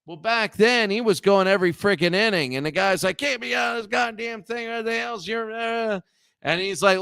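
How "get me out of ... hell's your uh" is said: raised, higher voice, retelling a fed-up pitcher's outburst; mock angry pitcher. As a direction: bark it half-seriously like a worn-out pitcher. Pitcher yelling at his manager.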